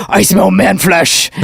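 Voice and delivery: slow mock orc growl. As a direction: lightly play a hungry orc. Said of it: "So I'll be like".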